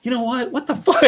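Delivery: high, giggling what the fuck; sudden high laughing complaint; laughing mock outburst. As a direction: burst out laughing at your own rant. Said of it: "I'll be like".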